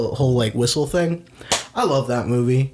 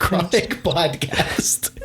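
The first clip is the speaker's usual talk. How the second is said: piglet voice; 4 semitones higher, much slower than usual. Pretend. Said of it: "my Piglet impression".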